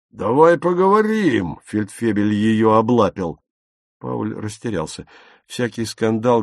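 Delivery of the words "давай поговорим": leering. A narrator's reading. Sergeant pawing Silke.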